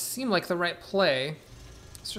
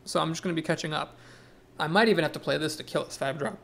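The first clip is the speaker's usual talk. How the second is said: hiccuping; faster than usual. Real, not acted. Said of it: "I'm hiccuping a lot".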